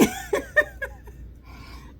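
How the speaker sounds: breathless high giggle; airy high laugh. Real, not acted. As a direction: wheeze out a laugh. Laughing at the memory.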